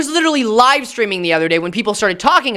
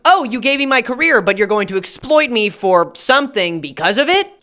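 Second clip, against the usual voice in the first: mock incredulous question, rising at the end; indignant protest; 3 semitones higher than usual. Protégé challenging the mentor who exploits him, mock indignant. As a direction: question it in disbelief, pitch climbing to the end.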